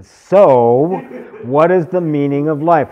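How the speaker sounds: loud, high, energetic repeat of the question; mimicking his energy. Teacher repeats a shouted audience question loudly. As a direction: belt the question out with his enthusiasm. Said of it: "I'm trying to do it with his level of energy".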